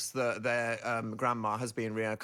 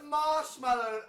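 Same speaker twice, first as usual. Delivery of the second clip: high sing-song; 13 semitones higher, slower than usual. Real, not acted. Playful sing-song opener.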